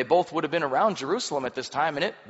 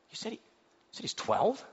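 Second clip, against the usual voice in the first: incredulous priest; 8 semitones higher, 4 dB quieter than usual. Acted. Amazed priest voiced.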